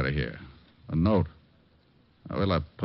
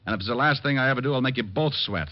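hard threat; 6 semitones higher than usual. Acted. Detective threatens reluctant witness.

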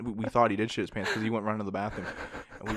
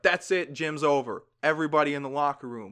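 higher, louder call to end the class; mock teacher barking orders at the class; imitating a stern teacher; 4 semitones higher, 3 dB louder than usual. Teacher ending gym class.

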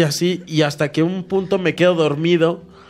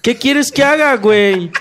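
high, louder whiny shrug laughing; mocking Jorge; 7 semitones higher, 4 dB louder than usual. Mimicking Jorge's indifferent shrug, high and whiny. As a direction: toss it off like a friend who couldn't care less.

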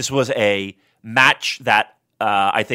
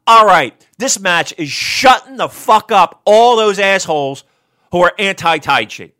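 imitated gloating fan; 5 semitones higher, 5 dB louder than usual. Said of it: "you're sitting there saying".

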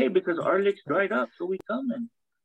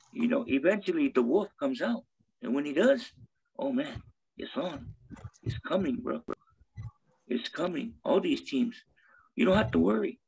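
wrestling promo. Acted. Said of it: "cutting a wrestling promo".

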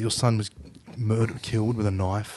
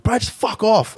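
higher mock voice of a bloke telling him to get lost; dismissive brush-off; 10 semitones higher, 4 dB louder than usual. Other guy telling the drunk to get lost, mock brush-off. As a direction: toss it off like a bored tough guy. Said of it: "this other guy was like".

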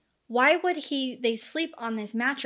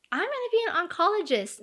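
mock proud; 8 semitones higher than usual. Suspect boasting about med school.

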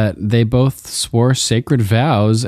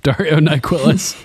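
laughing; 5 semitones higher than usual. Real, not acted.

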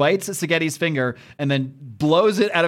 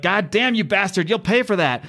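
mildly acted curse, pitched up; retold angry threat; 5 semitones higher than usual. Host voicing the Fiend cursing Dragon, mock angry. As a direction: imitate an outraged threat, lightly.

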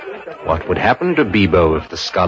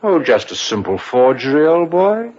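playful mock nonchalance; 7 semitones higher than usual. Mocks his own forgery plan.

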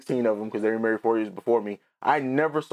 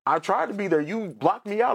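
a light imitation of his dad, pitched higher; a hint of a defensive father, voiced higher; dad's reply; 8 semitones higher than usual. Dad answering in retold argument.

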